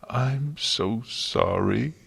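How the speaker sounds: slow, mild sobbing apology; howling. Acted. Twilight sobbing her apology into Celestia's embrace. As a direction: drag it out like you're falling apart. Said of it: "she howled".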